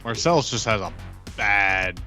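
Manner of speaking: ordinary delivery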